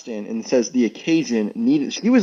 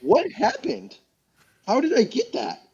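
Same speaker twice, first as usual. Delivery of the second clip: high, stunned and thrilled disbelief; super excited; 11 semitones higher than usual. Real, not acted. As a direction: blurt it out like you just found money. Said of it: "I got super excited".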